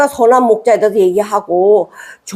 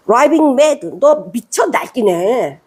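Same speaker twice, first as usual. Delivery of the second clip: mock accusation; much slower than usual. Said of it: "영어로 보니까".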